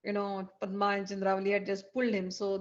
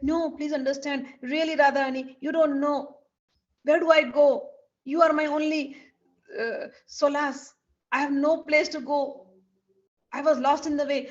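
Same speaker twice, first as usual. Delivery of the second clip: pleading; 4 semitones higher, 5 dB louder than usual. Acted. Krishna begs Radha to understand.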